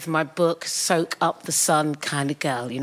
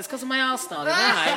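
sassy retort; 6 semitones higher than usual. Retold or imitated. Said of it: "It's like".

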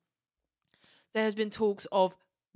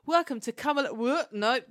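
higher, livelier welcome that trips up; mock botched intro; 4 semitones higher, 4 dB louder than usual. Host mimics their usual failed podcast opening, mock botched intro. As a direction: act out fluffing your own intro. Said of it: "Usually I'm just like".

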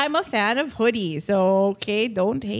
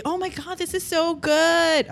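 imagined delighted rave; 7 semitones higher than usual. Acted. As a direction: play an idol savouring the first bite. Imagines idols tasting her cheeseburger.

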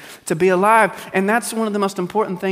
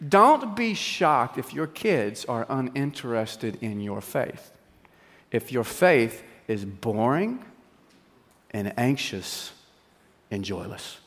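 lower, softer, slow and weighty; hushed sermon point; 6 semitones lower, 6 dB quieter, slower than usual. Real, not acted. Preacher warning parents about joyless faith, slow and hushed. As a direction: let it sink in quietly. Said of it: "preacher drops voice for point".

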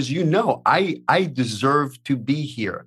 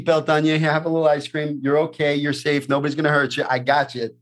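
put-on tender to inner child; 2 semitones higher, faster than usual. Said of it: "what I tell little Billy is".

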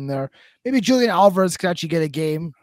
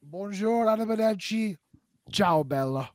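lightly put-on French and Italian accents, softer; mock European greetings; 4 semitones higher, 4 dB quieter than usual. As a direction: toss off the foreign farewells playfully. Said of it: "Bonjour in French".

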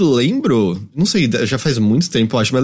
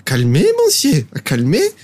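retold gate agent; slower than usual. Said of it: "a moça da porta, assim, ela".

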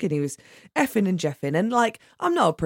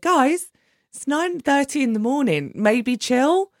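high-pitched, raised appeal for calm; retold exasperated plea; 9 semitones higher, 4 dB louder, slower than usual. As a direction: intervene in a quarrel, pitched well up. Retelling her plea to quarrelling passengers.

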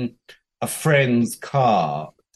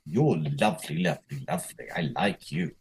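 dreamy inner thought; 6 semitones lower, 7 dB quieter than usual. Retold or imitated. Inner thought about attractive guy.

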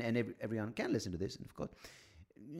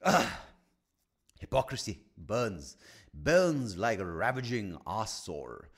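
slow, louder grand declaration; mock dramatic orator; 6 dB louder, slower than usual. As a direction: proclaim it like a ham poet.

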